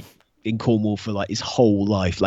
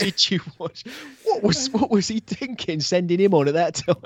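higher, prim nerd voice; geeky sitcom voice; 8 semitones higher than usual. Retold or imitated. Joining the sitcom geek bit, higher and prim. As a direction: ham up the awkward geek. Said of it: "Moss and Roy from the I T crowd".

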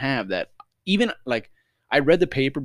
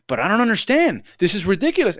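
raised, indignant complaint; pissed off; 10 semitones higher, 5 dB louder than usual. Retold or imitated. Father arguing with passport clerk, getting pissed off. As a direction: protest higher and louder, imitating an angry customer. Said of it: "And he starts getting pissed off".

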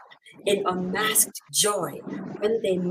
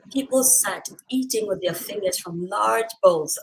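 choked up reading; 3 dB louder than usual. Real, not acted. Reader moved by the chop bar scene, choked up. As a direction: voice catching with emotion while reading. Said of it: "Ah, I miss chop bars".

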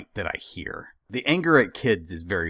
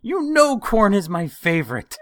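high, loud, slow wail of betrayal; hammed-up tearful accusation; imitating a crying mother-in-law; mock sobbing complaint; 14 semitones higher, 8 dB louder than usual. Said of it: "tears streaming down her face".

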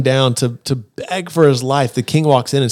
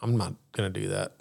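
king refusing; 4 semitones lower, 14 dB quieter than usual. Retold or imitated. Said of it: "the king's like".

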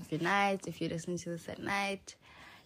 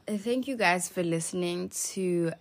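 unsteady voice from the flu; shaky voice; 3 semitones lower than usual. Real, not acted. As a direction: let the voice shake, sick. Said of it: "my voice is, like, shaky".

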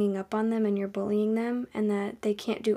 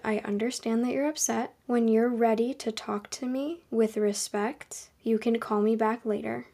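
calm. Retold or imitated. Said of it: "I said very calmly".

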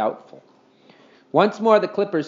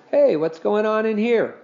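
father voice; 9 semitones higher, 4 dB louder than usual. A narrator's reading.

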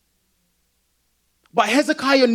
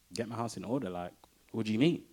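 confused; 9 semitones lower, 11 dB quieter, faster than usual. Retold or imitated. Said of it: "Hezekiah's probably like".

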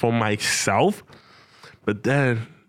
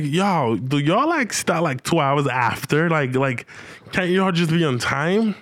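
exasperated complaint; 6 semitones higher than usual. Retold or imitated. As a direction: whine it up high like you can't believe the wait. Complaining the event started late.

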